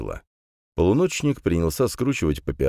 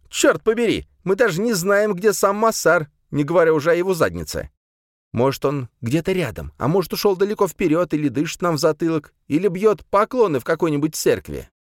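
frustrated rant; 13 semitones higher, 4 dB louder than usual. Acted. Салиман rants in frustration.

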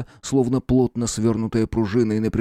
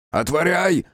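gleeful call; 8 semitones higher, slower than usual. Acted. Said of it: "возликовали полученному отклику".

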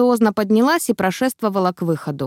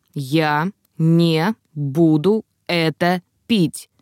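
slow, firm and unbending; a sick man's stubborn, slow no; firm refusal; 3 semitones lower, much slower than usual. Acted. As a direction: refuse flatly, every word weighed. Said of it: "голос слишком уж твёрдый".

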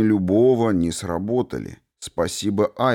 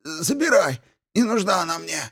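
gurgling alien voice; 11 semitones higher than usual. A narrator's reading. Archmage gives in, gurgling.

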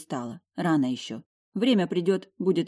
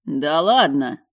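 stunned disbelief; 6 dB louder, slower than usual. Acted. Shocked husband exclaims at news.

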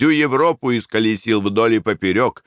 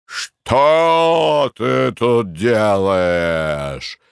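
startled shout; 2 semitones higher, much slower than usual. A narrator's reading. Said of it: "закричал".

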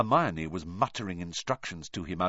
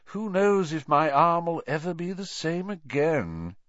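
mock self-pity; 10 semitones higher than usual. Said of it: "He gave a huge fake sigh".

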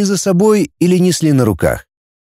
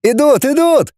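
much higher, chattering excitement; children all shouting at once, excited; excited clamor; 14 semitones higher than usual. Acted. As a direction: squeal it out with the crowd. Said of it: "загалдели все разом".

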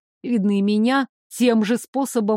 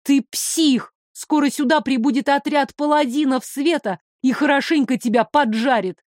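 выше и громче, яростно; бросить угрозу в лицо; гневный выкрик; 4 semitones higher than usual. Acted. Героиня кричит на злодея. (гневная угроза героини)

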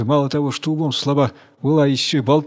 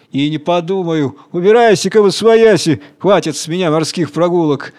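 contemptuous refusal; 3 semitones higher, 4 dB louder than usual. Acted. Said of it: "презрительно смеётся".

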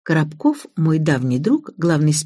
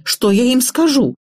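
higher, mildly wailing question; lamenting; 7 semitones higher than usual. A narrator's reading. Mother dreads telling her friends, lamenting. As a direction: fret aloud with a plaintive lift. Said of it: "запричитала мать".

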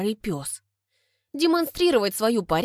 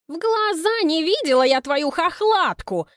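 angry shout; 8 semitones higher, 3 dB louder than usual. Acted. Neighbours quarrel, Galina shouting.

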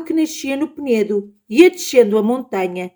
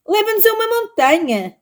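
much higher, tiny squeaky voice; 12 semitones higher than usual. Acted. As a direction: speak like a child shrunk to a finger's height. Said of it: "com uma voz muito fininha".

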